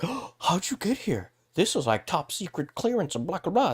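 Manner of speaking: whiny mock officials caught off guard; mock flustered officials. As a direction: squeak out their outrage in a silly voice. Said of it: "they're like".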